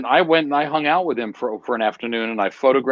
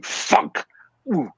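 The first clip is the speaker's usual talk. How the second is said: knife thunk sound; 4 semitones higher, 4 dB quieter than usual. Retold or imitated. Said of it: "you could literally hear it going".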